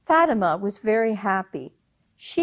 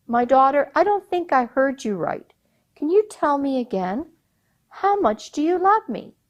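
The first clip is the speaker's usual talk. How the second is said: higher, strained father pressing his daughter; mild anger; 6 semitones higher, 3 dB louder than usual. Acted. Emir demanding his daughter repeat her answer, rising anger. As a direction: ask again with rising irritation. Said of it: "He got very mad".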